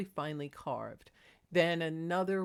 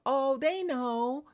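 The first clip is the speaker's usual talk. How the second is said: slow, high and louder cat voice; drawn-out knowing cat voice; voicing the cats; 6 semitones higher, 7 dB louder, much slower than usual. Cats gossiping about their owners, in a high voice. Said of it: "they always tell".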